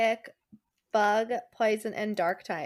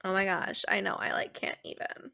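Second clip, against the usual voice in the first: put-on Valley Girl accent; 5 dB quieter than usual. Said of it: "Valley Girl accent".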